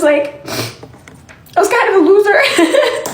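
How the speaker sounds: slow, self-mocking laugh through the words. Real, not acted. Creator laughing to fans about being a loser, slow laughing. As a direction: laugh it out at yourself.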